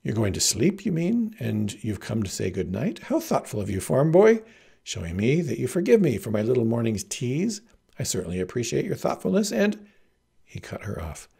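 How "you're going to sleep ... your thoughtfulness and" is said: affected graciousness with swooping pitch; still fancy. Acted. Heroine thanks farm boy for saying good night, affectedly fancy. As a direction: keep up the grand airs, gushing. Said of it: "but she still held to fancy".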